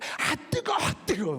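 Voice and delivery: very high, pained cry.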